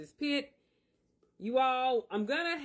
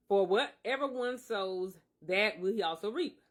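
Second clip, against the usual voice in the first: scripture reading. Acted. Reads scripture aloud.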